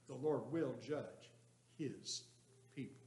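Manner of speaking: slow, with a pause before his; the Lord will judge, pause, his people; stress on his. Shown as a demonstration. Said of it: "Which word would you put the emphasis on".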